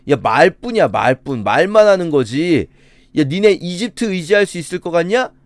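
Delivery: incredulous, belittling challenges with punched words; verbal demolition. Acted. Enemy general taunts Judah over trusting Egypt and God, scornfully. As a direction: tear into them with scornful questions. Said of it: "막 말로 완전히 무너뜨려 버리는".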